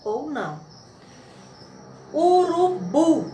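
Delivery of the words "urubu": urubu high, loud and slow, syllable by syllable to a strong BU; slow, emphatic urubu with BU held; stress on last syllable. Shown as a demonstration. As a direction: sound out urubu, stressing the final bu. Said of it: "a sílaba mais forte".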